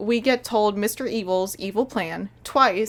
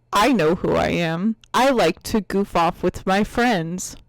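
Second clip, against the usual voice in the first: slow, pointed mock recitation; mocking quote; 3 semitones lower, 3 dB louder than usual. Reviewer asking who talks so, slow mocking quote. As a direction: quote it back deliberately to show its absurdity. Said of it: "When you were a child, did you ever say".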